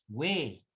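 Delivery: "we" with a clear W glide; U sounded. Shown as a demonstration. Teacher warning students about the difference, demonstrating. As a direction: stretch we with the U audible.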